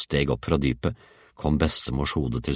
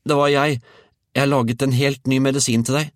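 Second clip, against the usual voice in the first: put-on high, loud child's call; insistent boy; 11 semitones higher, 6 dB louder than usual. A narrator's reading. Georg tells grandmother he made medicine, high shout.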